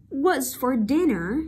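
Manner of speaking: slow "What's for dinner?" meant to fall on "dinner"; falling intonation. Shown as a demonstration. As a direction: model the question, bringing "dinner" down. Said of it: "Xuống giọng". (xuống giọng ở "dinner")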